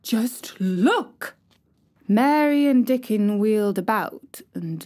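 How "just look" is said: breathless excited whisper. A narrator's reading. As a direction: whisper it urgently, pointing. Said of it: "he whispered excitedly".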